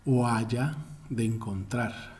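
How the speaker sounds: usual speaking voice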